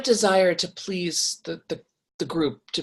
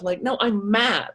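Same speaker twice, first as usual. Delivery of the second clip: slow, mildly acted anger; insistent anger; 3 semitones higher, slower than usual. Coach showing listeners how to let themselves be mad, mildly angry. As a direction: insist on being allowed the anger. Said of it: "Like, let yourself be mad".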